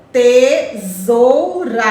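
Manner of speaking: slow syllable demo. Shown as a demonstration. Teacher sounds out tesoura slowly so kids find the syllables. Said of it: "Onde é que tá o rá?".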